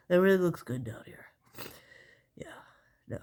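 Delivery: mock gynecologist whispering. Pretend gynecologist to patient, whispered. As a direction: breathe it out in a hushed joking whisper. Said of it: "Be a gynecologist".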